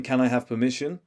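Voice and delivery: "permission" lifted at the end like a question; Valley Girl lift on "permission"; questioning uptalk. Shown as a demonstration. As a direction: ask "Can I have permission?" with a rise on the last word. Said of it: "it sounds like a que".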